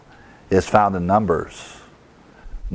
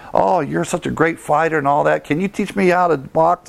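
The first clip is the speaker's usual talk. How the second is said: put-on eager young fan; 6 semitones higher than usual. Young boxer begging Rocky.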